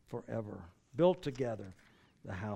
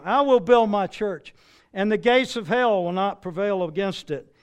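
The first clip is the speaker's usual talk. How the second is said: bold proclamation; 5 semitones higher, 7 dB louder than usual. Acted. Quoting the Lord's promise.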